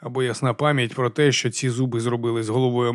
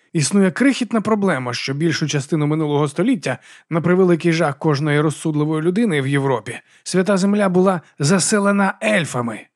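indignant monk; 4 semitones higher than usual. Acted. Brother Diaz indignant.

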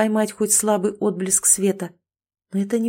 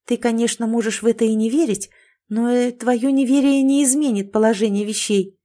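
a touch of an irritated snap; mild annoyed retort, a bit quick; snapping back; 3 semitones higher than usual. Acted. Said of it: "шикнула на него девушка".

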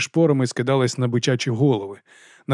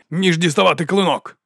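raised punchline to a crowd; ringing oration; 5 semitones higher than usual. A narrator's reading. Captain jokes about his sword to troops, ringing oratory. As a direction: land it as a public quip. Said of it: "Його голос дзвенів".

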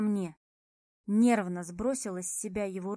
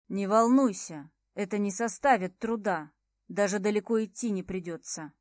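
cold smirk; 3 dB louder than usual. Acted. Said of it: "с холодной усмешкой выдал тот".

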